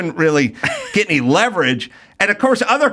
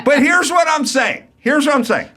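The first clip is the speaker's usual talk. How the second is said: laughing shout; 10 semitones higher than usual. Real, not acted. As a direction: burst out laughing. Laughing shout mid-story.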